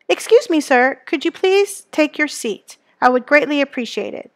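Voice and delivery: a lightly acted, overly polite request; formal politeness. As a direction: ask him to sit as courteously as you can. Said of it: "meant to be formal and show politeness".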